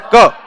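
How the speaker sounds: क said in one quick clipped burst; correct short ka. Shown as a demonstration. Teacher models क as one quick clipped burst. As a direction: snap out क in a single jerk. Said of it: "एक झटके से इसका उच्चारण होता है".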